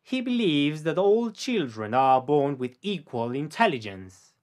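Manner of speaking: slow, careful read for repeating; each word laid out slowly for the learner; slow model sentence. Shown as a demonstration. Teacher to student, slow model sentence for repetition. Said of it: "te toca a ti decirlo después de mí".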